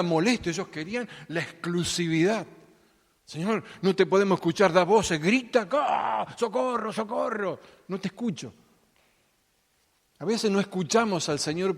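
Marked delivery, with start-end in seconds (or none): 3.2-8.5 burla exasperada. Pretend. Discípulos burlándose de la mujer.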